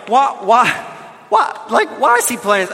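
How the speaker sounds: loud, high, disbelieving shout of why; exasperated sideline shout. Retold or imitated. Parent on the sideline shouting in disbelief at Bobby playing. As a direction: yell it like a fed-up sideline parent.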